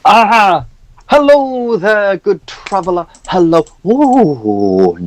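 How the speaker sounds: put-on high, fussy old priest voice; jolly priest NPC. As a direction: play a pompous, chatty cleric.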